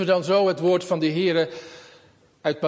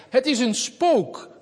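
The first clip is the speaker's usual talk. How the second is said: higher, slow, a touch of fright; mild fear; 6 semitones higher, slower than usual. Acted. Disciples see Jesus on the sea, mildly frightened and slow. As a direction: let a hint of alarm rise in it. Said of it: "En ze schreeuwden van angst".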